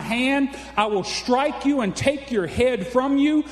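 ringing, measured scripture read. Acted. Preacher to congregation reading David's challenge, proclaimed. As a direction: proclaim David's words like a herald. Reads scripture at full force.

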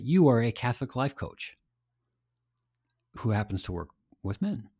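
"Catholic life coach" run together as one title, "who happens to work with men" set apart after a long pause; grouped as Catholic life coach. Shown as a demonstration. Host shows guest the first reading of his brand, title kept whole. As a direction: stress YOU, keep "Catholic life coach" as one unit, then pause. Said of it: "two versions of Catholic life coach for men".

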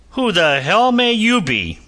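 sudden high, loud outburst; exploding in anger. A narrator's reading. Angry captain exploding at the stranger. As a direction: blurt it out like an explosion. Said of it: "he exploded".

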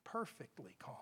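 very low, soft "Perfectly calm"; hushed awe. Shown as a demonstration. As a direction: let "Perfectly calm" settle almost to nothing. Savours the calm of the verse.

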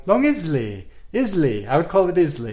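"Islay" said as IZ-lee; short i and a z in "Islay"; pronounced IZ-lee. Shown as a demonstration. Host offering his fun version of island, "Islay" as IZ-lee. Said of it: "say island in a fun way like that way".

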